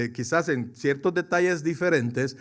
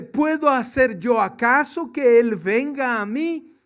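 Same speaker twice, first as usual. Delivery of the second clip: a lightly voiced grieving king, higher; King David replying; 6 semitones higher, 4 dB louder than usual. King David answering servants, a mild hint of a king's voice. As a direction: ask it as the resigned king.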